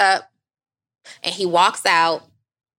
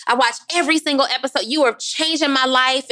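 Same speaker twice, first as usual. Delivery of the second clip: gushing fan; 5 semitones higher than usual. Retold or imitated. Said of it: "And he's like".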